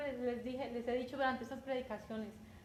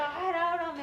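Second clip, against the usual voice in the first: mock pushy demand, higher and louder; rough demanding knock; 4 semitones higher, 5 dB louder, slower than usual. Preacher imitating a rude visitor, demanding and loud. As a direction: bark it like someone pounding on the door. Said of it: "hay personas que tocan duro la puerta".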